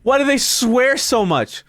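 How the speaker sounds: very high-pitched baffled protest; exasperated high-voiced outburst; incredulous. Real, not acted. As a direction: squeal the question in disbelief. Streamer reacts aghast to the swearing.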